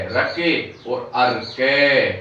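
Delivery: अर्के said slowly, syllable by syllable; slow it down so students catch अर्के; careful teacher's slow अर्के; slow pronunciation demo. Shown as a demonstration. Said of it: "इस प्रकार से हम उच्चारण करेंगे".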